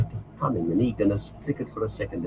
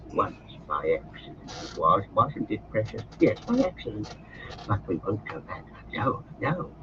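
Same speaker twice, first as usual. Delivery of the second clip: Gollum's voice; 4 dB quieter than usual. Acted. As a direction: wheedle like a wretched creature. Gollum answers Frodo.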